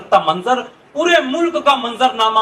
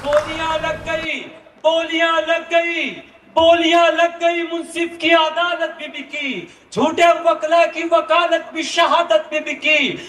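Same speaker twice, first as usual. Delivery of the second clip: stately nazm recitation; 3 semitones higher than usual. Acted. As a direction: recite the poem with sorrowful weight. Nazm continued to end.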